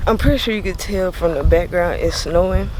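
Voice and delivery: talking around a grill; slightly muffled by mouth grill; wearing teeth grill. Real, not acted. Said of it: "Sorry the way that I'm talking because I got a grill in my mouth".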